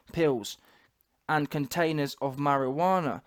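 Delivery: slow, measured article reading; news report read. Acted. Host reading an arrest report to viewers, slow news read. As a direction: read the report out deliberately, phrase by phrase.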